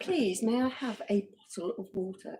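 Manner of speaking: lightly hammed-up posh English; mock posh British. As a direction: ask very properly, like royalty. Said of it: "that's, like, the Queen's English".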